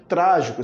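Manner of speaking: "trágico" with the weight on "trá"; "trágico" stressed as TRÁ-gi-co; stress on antepenultimate. Shown as a demonstration. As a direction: hit the first syllable of "trágico". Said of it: "vai ser sempre a antepenúltima".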